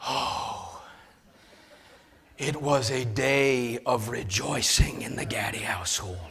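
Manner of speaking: hushed, breathy-free whisper of delight; mock rejoicing whisper. Pastor sharing his coffee joy with the church, whispered. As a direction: whisper it like sacred good news.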